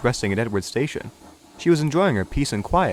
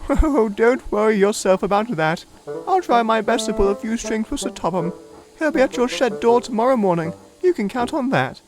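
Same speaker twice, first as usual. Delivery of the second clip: much higher, doting grande dame voice; fond old lorry; 11 semitones higher than usual. Acted. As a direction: coo at her like a fond aunt. Elizabeth reassures.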